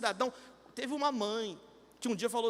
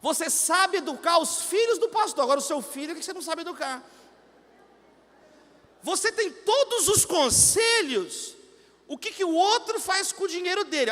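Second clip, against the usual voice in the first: scolding sermon; 4 semitones higher, 5 dB louder than usual. Real, not acted. Pastor scolding the congregation.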